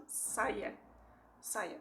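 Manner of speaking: saia with a plain S like in English; clear S sound. Shown as a demonstration. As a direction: say saia with a hissed S. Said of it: "It's an S sound".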